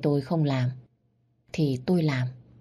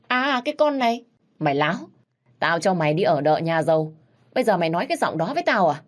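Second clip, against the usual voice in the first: enraged father; 2 semitones higher, 3 dB louder, faster than usual. Acted. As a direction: spit the words at her. Father rounds on daughter.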